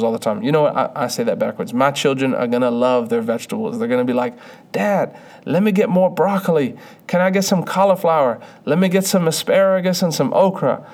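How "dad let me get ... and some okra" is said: put-on cheerful high kid voice with a Southern accent; Southern accent, high and eager; kids' Southern accent. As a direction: play your eager Southern kids asking for veggies. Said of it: "a Southern accent".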